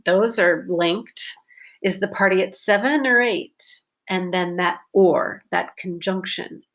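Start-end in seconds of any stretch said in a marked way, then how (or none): 1.8-3.8 or said as a weak er; seven er eight; reduced or. Shown as a demonstration. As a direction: slide through or. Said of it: "is reduced".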